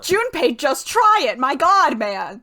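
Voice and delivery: fed-up pleading outburst; exasperated urging. Real, not acted. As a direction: burst out at someone who won't listen. Urging stubborn character on screen.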